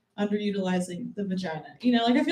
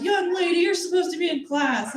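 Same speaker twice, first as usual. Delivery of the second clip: higher, lightly voiced scolding teacher; 8 semitones higher than usual. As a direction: mimic a stern hall monitor. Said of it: "They'd be like".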